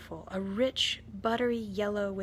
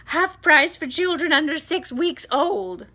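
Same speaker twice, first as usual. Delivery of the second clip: loud, higher shout; 7 semitones higher, 11 dB louder than usual. A narrator's reading. Aunt Sponge shouting prices to the crowd, loud and high. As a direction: call it out to the crowd. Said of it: "Aunt Sponge shouted".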